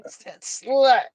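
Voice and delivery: high, dopey cartoon voice; Beavis. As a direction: imitate a cartoon teen, stretching the last word. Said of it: "Oh, look, butthead".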